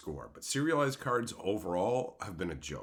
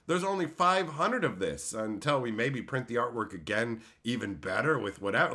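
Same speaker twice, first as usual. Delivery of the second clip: mocking Wizards pitch; 4 semitones higher than usual. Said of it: "Wizards trying to go".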